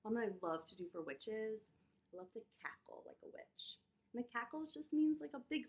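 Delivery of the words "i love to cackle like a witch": soft whisper; hushed aside. Real, not acted.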